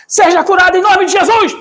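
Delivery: high, loud mock prayer shout; retold healing shout. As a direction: yell the healing into her ear. Retells shouting prayer in ear. (grito de cura imitado)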